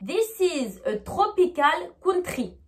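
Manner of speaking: slow French-accented English, hard T and French R. Shown as a demonstration. Teacher showing the French way, French-accented English. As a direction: read it with a strong French accent. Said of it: "vraiment dit avec une prononciation française".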